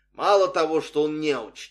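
hammed-up outraged passenger; silent public disapproval. A narrator's reading. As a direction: voice the scandalised onlookers. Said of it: "читал я в их взглядах".

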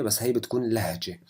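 ordinary talk

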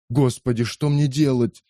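rising, agitated plea to God; agitated cry. Acted. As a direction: cry out, torn and anxious. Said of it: "взволнованно вскричал Кетчу". (взволнованный вскрик)

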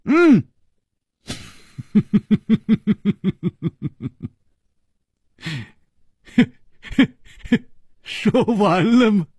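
sharp high outburst, drawn out at the end; high-pitched stern challenge; stern, cutting demand. A narrator's reading. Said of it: "突听李玉涵厉声说".

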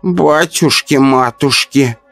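put-on slow, hushed old woman gasp; old neighbour frightened; frightened whisper. A narrator's reading. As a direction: breathe it out in fright. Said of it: "прошептала испуганная тётя Люба".

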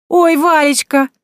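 put-on girl delighted to find her friend; joyful cry. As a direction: stretch it out with relief and joy. Tanka overjoyed seeing her friend.

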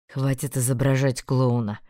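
a hint of a stern young man; frowning Einar. A narrator's reading. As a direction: frown it out, low. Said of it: "нахмурился Эйнар".

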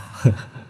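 breath of a sinister chuckle; short scoffing laugh. A narrator's reading. Ghost father scorning his son, scoffing laugh. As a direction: scoff with one voiceless huff.

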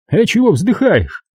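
high, smug official voice; pompous bureaucrat talking down; notary's voice. A narrator's reading. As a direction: play the fat notary, condescending and self-important.

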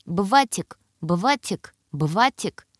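put-on бватик with в for р, toddler lisp; says w for r. A narrator's reading. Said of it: "очаровательно картавя".

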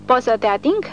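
mock respect. A narrator's reading. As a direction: fake reverence, laying it on. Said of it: "cu un sentiment prefăcut de respect".

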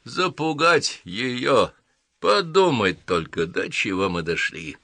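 slow, drawn-out affront, starting high and sinking; indignant grumbling. Acted. Mr. Croup laments his orders to himself, indignant. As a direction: dwell on each outraged word, then drop. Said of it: "возмущенно бормотал себе под нос".

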